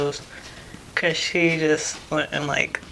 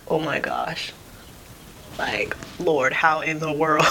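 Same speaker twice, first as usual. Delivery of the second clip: stunned disbelief; slower than usual. Retold or imitated. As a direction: retell a moment of overwhelmed disbelief. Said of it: "questioning my entire life".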